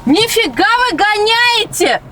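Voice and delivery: breathless after a chase, slow; panting out the words; out of breath. Real, not acted. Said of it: "Я еле угналась за вами".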